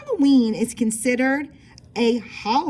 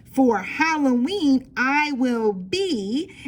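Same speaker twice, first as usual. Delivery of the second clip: slow, drawn-out For Halloween, I will be; slow read-aloud; 3 semitones higher, much slower than usual. Shown as a demonstration. Teacher modelling the sentence slowly for kids. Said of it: "fill it in".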